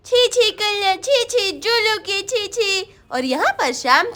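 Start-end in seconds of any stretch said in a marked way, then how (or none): 0.1-3.0 put-on babyish muttered repetition; a hint of a tiny boy babbling; lightly voiced toddler. Toddler chatting to himself. (छोटे बच्चे की हल्की तोतली आवाज़)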